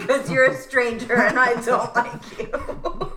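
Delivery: giggling through the words; half-laughing mock rejection. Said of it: "I was like".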